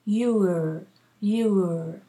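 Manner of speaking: you're said as /jʊər/. Shown as a demonstration. Teacher modelling you're for the class. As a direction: say you're with a clear r. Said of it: "not your. Okay, that's a possessive".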